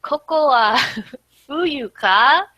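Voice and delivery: high, loud disbelief; playful acted shock; Yotsuba's astonishment. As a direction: exclaim it, then draw the question out. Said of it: "And then Yotsuba's like".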